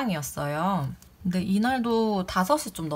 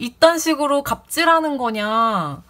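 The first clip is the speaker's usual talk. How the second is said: loud, higher accusing yell; angry shout; 7 semitones higher, 6 dB louder than usual. Retold or imitated. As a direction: hurl the accusation at her. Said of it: "갑자기 갑질이라는 단어를 쓰면서 막 큰 소리를".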